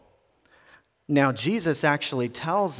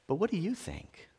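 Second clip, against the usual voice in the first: whispered question; 6 semitones higher, 7 dB quieter than usual. Acted. Jesus asking disciples intimately.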